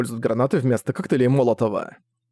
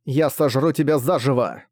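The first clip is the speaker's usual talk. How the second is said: buzzing insect swarm chorus. Acted. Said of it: "Ещё один голос Роя".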